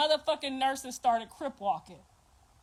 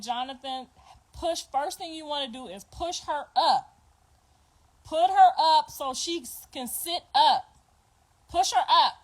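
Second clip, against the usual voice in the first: urgent raised voice, pushing her up; yelling instructions; 3 dB louder than usual. Retold or imitated. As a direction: call out orders across the delivery room. Grandma yelling instructions at delivery.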